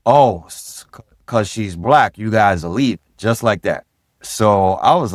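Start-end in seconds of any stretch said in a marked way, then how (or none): 0.1-3.0 mildly raised, mock-sarcastic call; imitating a bystander's sarcastic jab; sarcastic yell. Bystander to police as they leave, sarcastic. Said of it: "he yelled out sarcastically".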